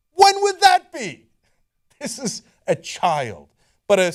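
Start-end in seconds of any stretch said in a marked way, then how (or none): 0.1-1.3 high, loud and slow disbelief; drawn-out baffled question; incredulous. Real, not acted. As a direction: ask it as if the idea is absurd.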